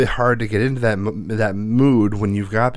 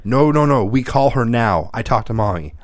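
put-on kid protest; 3 dB louder than usual. Son protests loudly.

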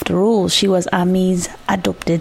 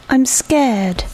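put-on small, frightened child's voice; a scared little voice in the dark; petrified mouse; 5 semitones higher than usual. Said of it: "like a petrified mouse".

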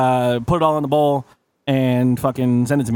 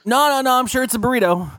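insistent server; 8 semitones higher than usual. Retold or imitated. Server insists it's a burrito.

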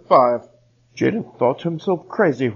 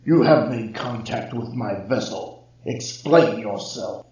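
ear-splitting voice. Acted. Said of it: "to be ear-splittingly loud".

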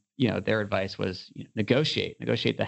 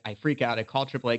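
ordinary delivery

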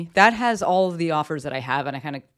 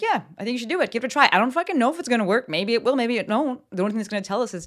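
a higher, upbeat cheerleading push; hype maestro pep talk; 6 semitones higher, faster than usual. Retold or imitated. Hype coach cheering on a nervous client, pitched-up encouragement. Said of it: "me, the hype maestro, being like".

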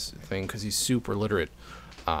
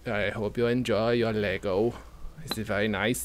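put-on German accent; 3 dB quieter than usual. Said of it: "I don't know why I'm doing German voice".

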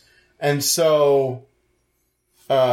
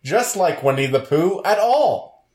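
north korean newsreader; 6 semitones higher than usual. Acted. Reading mock Chinese statement.

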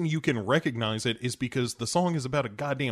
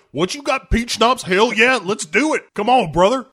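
higher, louder whoop of glee; mock delight; 10 semitones higher, 7 dB louder than usual. Tom Cruise offered peach schnapps, hammed-up delight. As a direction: cheer like a bro hearing there is booze.

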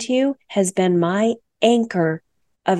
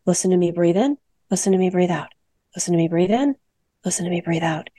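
calm breathing guide; faster than usual. Shown as a demonstration. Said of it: "just listen to my breath".

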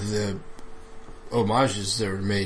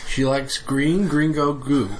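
laughing; 3 semitones higher, slower than usual. Real, not acted. Laughing at the joke.

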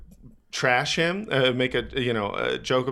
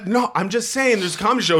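higher, lightly put-upon voice; mock meek self; 7 semitones higher than usual. Comedian explaining the show, lightly mock meek voice. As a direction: play yourself as mild and innocent. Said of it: "I was just like".

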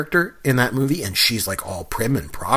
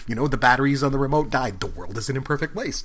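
calm reassuring; 4 dB quieter than usual. Retold or imitated. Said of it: "with my wife around the house".

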